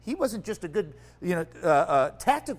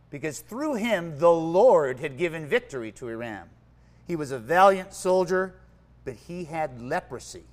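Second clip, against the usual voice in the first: measured, dramatic Bible reading to a congregation; reading the Bible story to the church, carefully; scripture reading; 3 dB louder than usual. Acted. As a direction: read the passage aloud with weight. Reads scripture aloud to congregation.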